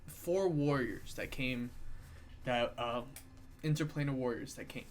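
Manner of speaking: talking through a held-back sneeze; fighting off a sneeze mid-sentence; holding back a sneeze. Real, not acted. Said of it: "sorry, I'm trying not to sneeze".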